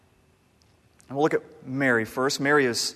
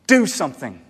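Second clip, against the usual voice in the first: exasperated Martha; 3 semitones higher, 5 dB louder, slower than usual. Retold or imitated. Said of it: "she essentially says".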